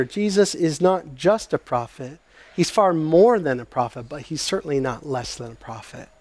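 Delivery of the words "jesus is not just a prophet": just leaned on with a rise; stress on just. Shown as a demonstration. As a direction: lean into just. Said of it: "here's the point you need to hear".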